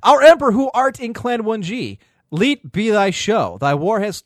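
slow solemn prayer, hammed up; mock prayer. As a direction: intone like a battle priest. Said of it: "he gives us a prayer".

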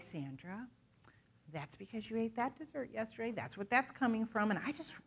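soft, gentle voice of the Holy Spirit; quiet, tender reassurance; gently, not condemning; sweet and gentle. Retold or imitated. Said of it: "he always says sweetly".

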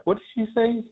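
put-on a deaf old man leaning over to his wife; hard-of-hearing old man. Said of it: "he was kinda hard of hearing".

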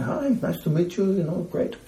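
put-on high, light German accent; a quick German accent greeting. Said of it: "I just do a German accent".

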